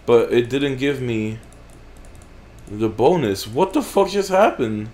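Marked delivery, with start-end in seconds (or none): 3.5-4.9 shocked. Real, not acted. Shocked again.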